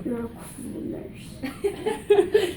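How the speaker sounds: slow, slurred, drowsy giggle; dreamy groggy words, very slow; sedated. Real, not acted. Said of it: "Never seen him like this".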